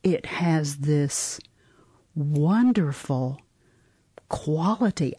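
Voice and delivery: whisper. Real, not acted. Groping for words, admiring prose.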